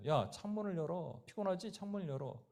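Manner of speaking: lightly voiced demon, softly coaxing; understated, soft demonic urging. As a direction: tempt quietly, like a voice in someone's head. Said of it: "귀신의 소리가 들렸대요".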